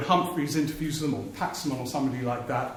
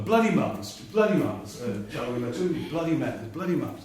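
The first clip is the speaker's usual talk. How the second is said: put-on Welsh accent. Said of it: "sorry about the Welsh accent".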